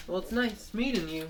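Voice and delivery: high-pitched put-on politeness; polite cartoon character. Character parting from a new acquaintance, high polite voice.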